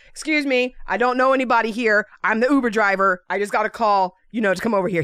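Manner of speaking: toned-down, matter-of-fact explanation; measured, courteous delivery without the attitude; polite actual reply. Retold or imitated. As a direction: explain yourself civilly to an officer. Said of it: "What I actually said is".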